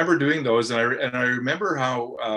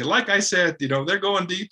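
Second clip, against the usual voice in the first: mock self-effacing; 8 semitones higher than usual. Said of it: "He'd say".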